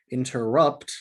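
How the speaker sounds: da-da-DUM on interrupt; anapest stress. Shown as a demonstration. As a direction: interrupt with the beat on -rupt. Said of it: "being a few examples of words that in and of themselves are anapests".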